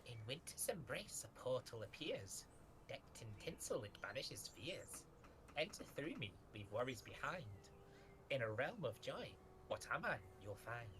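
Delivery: sing-song whisper. Acted. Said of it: "whispers in its sing-songy voice".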